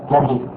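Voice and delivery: "كذب" with a on the kaf and i in the next syllable; "كذب" pronounced ka-dhib; fatha then kasra. Shown as a demonstration. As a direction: say "كذب" as two syllables, kadhib. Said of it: "فتحنا الكاف وكسرنا الباء".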